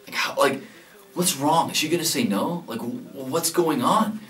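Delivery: rattled groom begging for an answer; panicked pleading. Retold or imitated. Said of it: "and I'm like".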